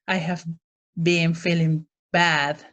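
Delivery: mock-dramatic complaint; too dramatic. Shown as a demonstration. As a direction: overplay the bad feeling a little. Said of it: "you don't want to be too dramatic".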